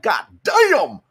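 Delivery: high, loud cry of amazement; awestruck exclamation. Acted. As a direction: blurt it out, blown away by the goal. Acts out awe at a spectacular goal.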